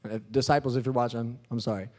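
very low, soft aside; sheepish apology. Real, not acted. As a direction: drop right down and apologize quietly. Mock-sheepish apology to disciples.

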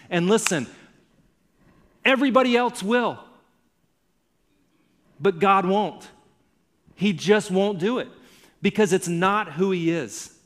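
fervent preaching, building up, pushing each phrase; preaching at full force. Acted. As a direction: preach it like a promise you won't let them miss. Pastor preaching with rising intensity.

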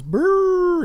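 high, loud wordless monster call; Grimace. Acted. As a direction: blurt out a long, high-pitched creature cry. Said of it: "so Grimace goes".

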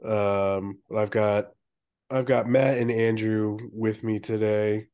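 stuffy nose from a cold; nasal voice. Real, not acted. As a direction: talk through a blocked nose. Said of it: "apologize for my, my nasaliness".

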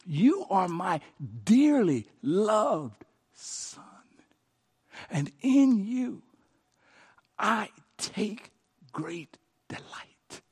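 slow, fading to a hush; tender, slow. Acted. Voicing the Father's words.

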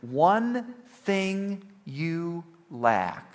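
very slow, tender emphasis on each word; loving correction. Retold or imitated. Jesus to the rich man out of love, slow loving correction. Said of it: "Jesus said this to him out of love".

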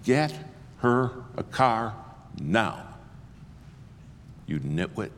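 slow, menacing threat to the clerk; threatening order. Retold or imitated. Preacher threatening the rental clerk, menacing. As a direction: lean on each word like a threat. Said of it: "And I threatened him".

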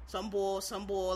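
"bull" said as "bawl" in "some bull"; demonstrating Philly "bull", rhyming with "ball"; Philly pronunciation. Shown as a demonstration. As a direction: say "bull" with an aw vowel, matter-of-fact. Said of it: "It's just how you say it".

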